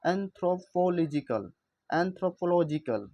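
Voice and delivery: anthropological said slowly, LO syllable stressed; stress shown. Shown as a demonstration. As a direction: stretch anthropological and punch LO. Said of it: "इस पर यहाँ पे जोर दिया जा रहा है".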